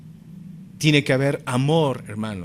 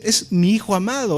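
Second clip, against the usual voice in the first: voz de Dios; 6 semitones higher than usual. Retold or imitated. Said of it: "Dios muestra y dice".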